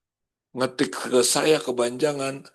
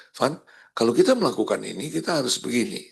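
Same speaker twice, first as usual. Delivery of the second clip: blunt choleric. Shown as a demonstration. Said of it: "teksturnya lebih kasar".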